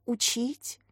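lost for words, barely asking; taken aback. A narrator's reading. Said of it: "Катя растерялась". (растерянно и тише)

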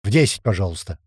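tipsy voice, a touch slurred; drunk hiccup. Acted. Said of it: "икнул уже порядком захмелевший".

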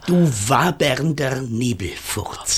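low, spat-out insult; scornful insult. Acted. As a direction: sneer it with contempt. Mayor insults the fog monster.

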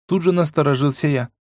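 ordinary delivery, nothing marked

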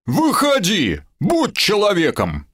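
high, urging call. Acted. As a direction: call out to the bushes. Goblin calling to the beast.

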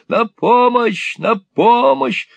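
very high, loud, slow call; shrill cry for help. A narrator's reading. Gride yelling to the street for help, loud. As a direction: scream for help out the window.

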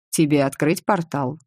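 ordinary delivery, nothing marked

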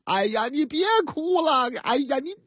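略带不耐烦地哄孩子; 演一个被哭声吵烦的爸爸; 烦躁的爸爸. Acted. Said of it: "这司机这个烦呐". (调门稍高，烦躁央求)

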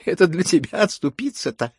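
high, loud scornful retort; triumphant. A narrator's reading. Woman mocks the rejected rival, triumphantly. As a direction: throw it back in triumph. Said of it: "торжествуя подхватила Дарья Алексеевна".

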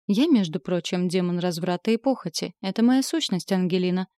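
smug snarl. Acted. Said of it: "ощерился Асмодей".

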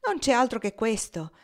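high, loud burst with a laugh in it; laughing exclamation. A narrator's reading. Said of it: "mettendosi a ridere esclamò".

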